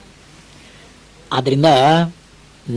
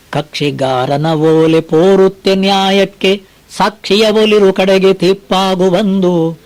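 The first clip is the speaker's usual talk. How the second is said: slow, measured verse chanting; poem recitation; much slower than usual. Acted. Preacher reciting Mankutimmana Kagga to listeners, slow recitation. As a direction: lay out each line of the verse slowly.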